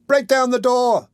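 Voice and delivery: high, loud, slow, stretched scream; boy screaming. A narrator's reading. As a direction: drag each word out as a scream. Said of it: "screamed the boy".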